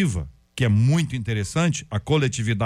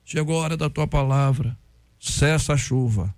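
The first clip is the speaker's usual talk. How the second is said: slowing into a measured command; praying old preacher. Retold or imitated. Old preacher commands the rain to stop, solemn imitated prayer. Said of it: "e o homem levantou".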